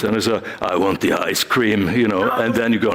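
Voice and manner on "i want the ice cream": lower, firm insistence on the ice cream; the hero firmly tells the troll what she wants; determined hero. Acted. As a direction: say it like you truly want it. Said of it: "since you really want the ice cream".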